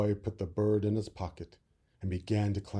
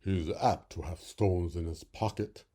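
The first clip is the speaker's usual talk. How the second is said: frog; 2 semitones lower than usual. Acted. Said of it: "said the frog".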